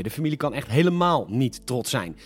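dropped, dry and serious; dry correction. Acted. Host drops the joke and corrects himself, dry. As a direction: take it back flatly. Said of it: "maar nee, een grapje".

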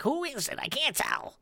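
a hint of a confused mother; man doing a woman's voice. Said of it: "and she'd be like".

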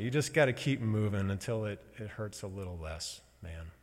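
light Boston accent imitation; a hint of a Boston guy giving advice. Imitating Pete's advice in a light Boston accent. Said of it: "He's got, like, a Bostonite".

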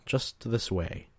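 a slow, drawn-out luring coo. Acted. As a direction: draw him closer, lingering on each word. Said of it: "she cooed again".

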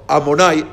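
Amonai with a rounded "oh"; Ashkenazi pronunciation. Shown as a demonstration. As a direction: say Amonai with closed O. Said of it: "los ashkenazim dicen".

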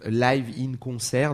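slow English accent on Live in Concert, Live as laiv. Shown as a demonstration. French host apologising for his English accent, slow. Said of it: "Pardon pour mon anglais, mon accent anglais".

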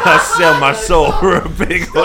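loud, high, hammed-up singer impression. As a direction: belt it out as a comic impression. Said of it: "our first special guest, a singer".

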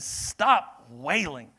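slow, loud command to stop; Jesus sternly silencing mourners; firm command. Acted. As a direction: order the mourners to stop, slowly.

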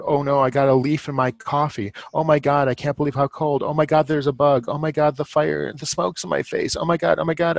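high-pitched fussing, no real shriek; mock shrieking. Mocking dramatic campers fussing over little things, mildly shrieky. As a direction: imitate dramatic campers piling up petty complaints. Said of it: "shrieking about".

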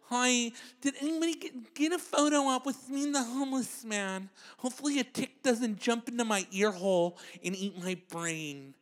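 a hint of a lisping girl asking for a photo; mock lisping white girl. Comic imitating a white girl with a lisp. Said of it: "that white girl with the lisp".

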